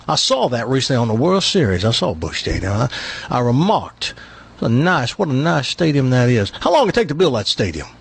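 lightly voiced bragging Texan; Texas accent. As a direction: play the Texan sizing things up. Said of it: "He's one of these Texans that brags".

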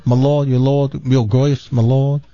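lightly voiced bumbling butler; hammed-up servant bowing and scraping; a touch of a fawning butler; butler impression. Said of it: "here's my impression of him".

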